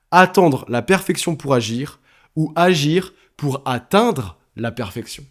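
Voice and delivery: slow down on "atteindre la perfection"; wordplay punchline. Shown as a demonstration. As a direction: stress "attendre" then "atteindre" to mark the pun. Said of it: "elle est pas mal".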